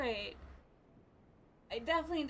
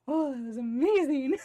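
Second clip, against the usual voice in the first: overjoyed; 13 dB louder than usual. Real, not acted. Emotional after the win.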